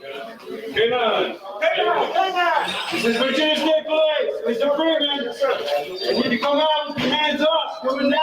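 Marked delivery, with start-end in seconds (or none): 2.9-8.2 through a megaphone. Real, not acted. Police calling suspect out.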